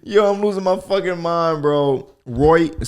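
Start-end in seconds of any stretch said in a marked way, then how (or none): 2.3-2.9 "Right" as roit, a louder Australian demo. Shown as a demonstration. Laughing about accents, an Australian "Right". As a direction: punch "Right" like an Aussie. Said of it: "sounds mad Australian".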